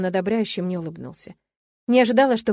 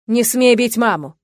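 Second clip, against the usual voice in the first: angry warning; 3 semitones higher, 8 dB louder, slower than usual. A narrator's reading. Son confronts father.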